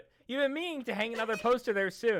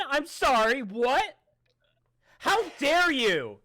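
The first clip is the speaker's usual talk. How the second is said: loud, higher, indignant dad voice; outraged dad; 6 semitones higher, 6 dB louder, slower than usual. Retold or imitated. Son imitates his dad taking mock offense. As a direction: act shocked and offended, like an accusing dad. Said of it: "my dad's voice".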